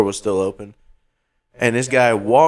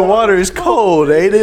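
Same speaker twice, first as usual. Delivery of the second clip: mimicking stranger; 5 semitones higher, 3 dB louder than usual. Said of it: "He said".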